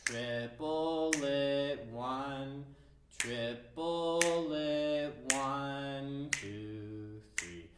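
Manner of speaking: triplet, one, triplet in a slow even pulse; counting triplets. Shown as a demonstration. Teacher demonstrates the spaced triplet, rhythmic. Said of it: "a massive triplet".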